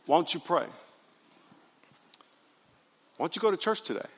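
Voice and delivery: soft-voiced imitation of an inner nudge; gentle hushed prompting. God nudging someone towards church, softly imitated. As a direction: suggest it quietly, leaving space between thoughts. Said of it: "He's just gonna whisper to you".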